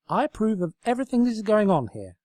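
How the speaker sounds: high, loud little lamp voice; squeaky approving lamp; lamp character. Acted. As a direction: chirp it up as a tiny eager lamp. Nightlight Sparkle speaks.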